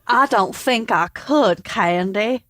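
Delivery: Texan man. Acted. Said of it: "would you like to read for Alan".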